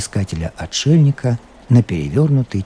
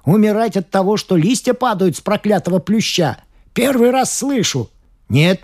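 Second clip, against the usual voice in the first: put-on shouting old man; 10 semitones higher than usual. A narrator's reading. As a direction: rant like a scornful old painter. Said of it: "раскричался, насмехаясь".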